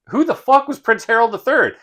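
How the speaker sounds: high-pitched baffled outburst; mock-indignant bewilderment; incredulous. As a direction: voice jumps up in disbelief. Retelling own baffled reaction to plot.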